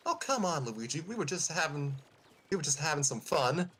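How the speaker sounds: coaxing Parakarry voice. Acted.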